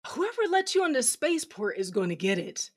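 loud snarling threat; angry threat. Acted. Villain threatening prisoner.

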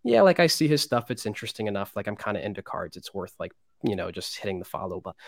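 mildly imitated shrug of a bored follower; apathetic follower. Creator imitating his indifferent followers for the interviewer, lightly mock-apathetic. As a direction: toss it off like a fan who barely cares. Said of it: "sort of apathetically like".

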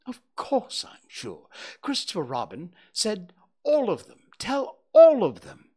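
high, rising to a loud impatient owl. Acted. Owl's voice.

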